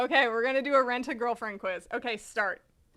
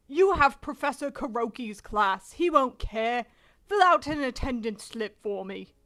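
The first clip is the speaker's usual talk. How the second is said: put-on British character voice; British accent. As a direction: read it in an acted British accent. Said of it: "do the British voice".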